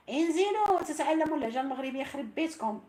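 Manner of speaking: loud, high call to the viewers; urging viewers loudly to come learn Moroccan dialect. Real, not acted. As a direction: shout the invitation to come down. Calling viewers to join.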